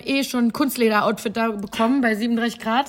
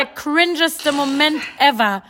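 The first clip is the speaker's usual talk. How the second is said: cringing exclamation; 4 semitones higher, 6 dB louder, slower than usual. Real, not acted. Exclaiming embarrassment.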